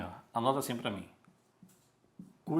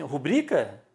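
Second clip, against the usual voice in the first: Rubrica? slipped out with the stress on bri; blurted question; 4 dB louder than usual. Retold or imitated. Teacher retelling his blurted correction to the clerk. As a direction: let Rubrica? pop out unplanned. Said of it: "sem querer eu disse assim".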